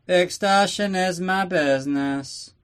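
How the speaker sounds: high, slow, theatrical villain voice, leaning on extortion; hammed-up Blofeld, drawn out and high; supervillain boast. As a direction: savour it like a gloating mastermind. Villain's signature line.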